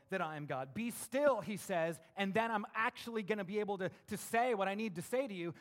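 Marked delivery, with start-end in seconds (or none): 0.7-1.4 loud, raised preacher's command; forceful command. Acted. Preacher voicing God's command to the congregation, forceful. 2.2-5.5 loud, raised, insistent delivery; forceful preaching. Acted. Preacher voicing God to the congregation, insistent.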